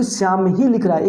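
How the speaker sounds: ही picked out as the key word; stress on ही. Shown as a demonstration. Teacher explaining the meaning of the example, stress on ही. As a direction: emphasise ही, then let the sentence fall. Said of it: "एक विशेष बल की उत्पत्ति होगी".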